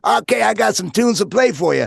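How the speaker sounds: high, loud imitation of an African-American DJ accent; hammed-up African-American radio DJ accent. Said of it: "sort of has this African-American accent a little bit".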